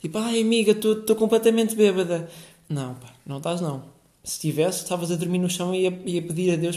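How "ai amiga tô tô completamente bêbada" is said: exaggerated girly drunk shriek to a friend; shouting drunk girl. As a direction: mimic a tipsy girl calling across the club. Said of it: "vejo uma miúda a gritar do outro lado".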